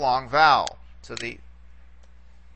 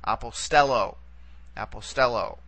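"apostello" accented on "stel", next to last syllable; "apostello" with the stress on STEL, said twice; stress on penult; 3 semitones lower than usual. Shown as a demonstration. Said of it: "only going to let us go back".

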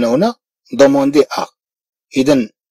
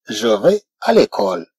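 slow model phrase; 3 semitones lower, much slower than usual. Shown as a demonstration. French teacher modelling a sentence, slowly. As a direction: read it slowly for the class. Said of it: "أقول مثلًا".

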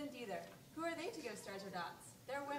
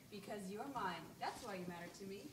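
slow; 2 semitones lower than usual. Acted. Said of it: "spoke very slowly".

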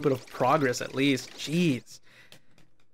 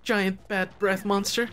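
high stuttering fearful squeak; squeaky critter voice; 5 semitones higher than usual. Acted. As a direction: stammer it like a tiny critter. Voicing little critter.

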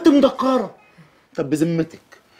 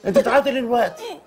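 laughing. Acted. يلاطف زوجته الباكية ضاحكا.

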